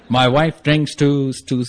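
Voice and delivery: very slow, labored over-enunciation. Retold or imitated. Husband shouting and miming at the counselor, mock-loud and slow. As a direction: spell it out slowly, as if to someone who can't understand. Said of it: "So I'm shouting and doing charades".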